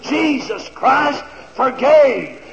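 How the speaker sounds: slow, drawn-out preacher's plea; emphatic, measured appeal in a preaching voice; retold pleading. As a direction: imitate pleading with a crowd, word by stretched word. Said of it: "I kept pleading with that student body".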